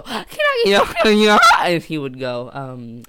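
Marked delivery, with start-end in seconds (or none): 0.0-1.4 high, loud, drawn-out holler; mock high-pitched yell; imitated rallying call. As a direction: call it out slowly like a chant leader. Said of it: "Bradley would go".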